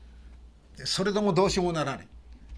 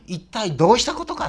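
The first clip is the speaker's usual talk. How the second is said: polite rebuke; 6 semitones higher, 7 dB louder than usual. Retold or imitated. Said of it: "穏やかな言葉遣いですけども".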